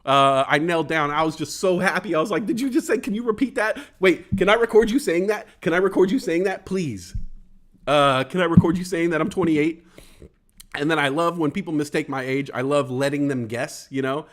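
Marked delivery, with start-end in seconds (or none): 2.5-9.8 giddy and pitched higher, begging to record it; excited disbelief. Retold or imitated. Coworker guessed twenty-eight, thrilled pleading to record it. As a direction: beg breathlessly for a recording. Thrilled at being mistaken younger.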